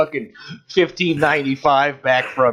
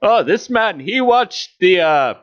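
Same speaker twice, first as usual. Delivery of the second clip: mock company lawyer; 4 semitones higher than usual. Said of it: "they don't give a fuck".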